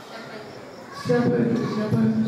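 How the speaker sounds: the call repeated three times, the first one faint; echo voice. Acted. The hill echoes the boy's question back.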